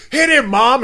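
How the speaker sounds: high, urgent shout to mom; urgent yelled plea. Acted. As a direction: yell it like a panicked kid in the car. Charlie urging mom to run him over.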